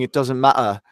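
"matter" with both T's dropped, Cockney-style; dropped double T. Shown as a demonstration. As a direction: say "matter" with a glottal stop for the T's. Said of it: "drop both the double T's".

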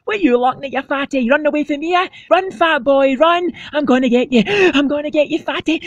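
very high, teasing chase voice; squeaky playground taunt. Acted. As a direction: chase him, squeaky and cheeky.

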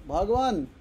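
lightly voiced host calling for tea; a hint of a host calling out; mild Gujarati host call. Gujarati host calling for tea in the joke, mild. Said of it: "Gujarati लोग ऐसे करते हैं".

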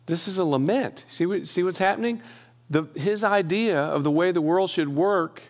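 pleading psalm read with rising anguish; lament reading. Acted. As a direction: read it as a heartfelt complaint to God. Reads the lament psalm aloud.

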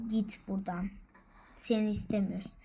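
soft whispered get lost; whispered shooing. Acted. Whispering to shoo something away. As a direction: hiss it away under the breath.

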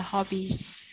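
hobbies said slowly with a z ending; plural model. Shown as a demonstration. Teacher modeling the plural for her child: hobbies slowly with z. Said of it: "đổi y dài thành y ngắn và thêm E S".

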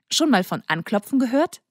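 put-on irritated teen protest; annoyed snap. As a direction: bite back at the intruder. Colin barges in unannounced.

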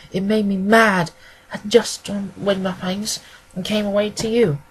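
lightly voiced aggrieved client. Woman telling the detective her father would do nothing, mildly aggrieved. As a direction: grumble mildly about being fobbed off.

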